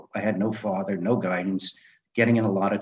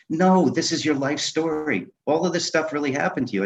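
higher, insistent mock scolding; higher-pitched, emphatic retold telling-off; retold yelling; 6 semitones higher than usual. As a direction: mildly act out a friend yelling at him. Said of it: "they both started yelling at me".

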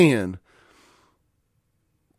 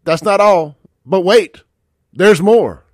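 loud pitchman hype, louder; infomercial; 3 semitones higher, 5 dB louder, slower than usual. Shown as a demonstration. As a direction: sell it like a TV ad host. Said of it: "Like I'm selling you a ShamWow here".

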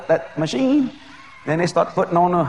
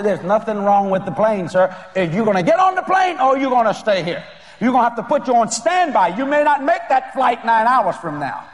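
stern agent; 5 semitones higher than usual. Retold or imitated. Agent scolding the preacher.

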